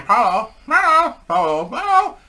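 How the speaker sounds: high, squawky parrot mimicking the call; loud, high-pitched imitation of parrots. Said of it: "And they're saying".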